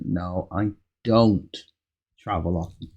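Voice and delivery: don't stressed in I don't travel often. Shown as a demonstration. Teacher modelling a stressed don't in the answer. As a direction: lean on don't for the negation. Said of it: "Stress the do or the don't".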